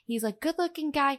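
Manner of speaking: lightly voiced director quote; director impression. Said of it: "I'm not doing an impression".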